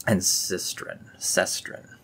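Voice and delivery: slow whispered add-on; whispered joke. Real, not acted. Adding sisters to the verse for viewers, whispered. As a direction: slip the joke in under breath. Joke word added to scripture.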